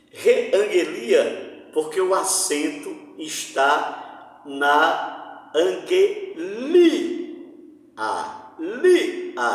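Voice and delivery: Reangelia slowly drawn out, lia stressed; slow stress on the li syllable. Shown as a demonstration. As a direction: stretch angelia and land on LI. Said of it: "na paroxítona". (angelia pronunciado devagar, tônica em LI)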